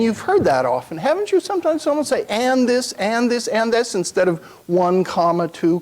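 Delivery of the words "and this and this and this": each "and this" lifted higher and hit separately; emphatic repetition. Shown as a demonstration. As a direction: stack the "and this" phrases, one punch after another. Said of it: "It's done for emphasis".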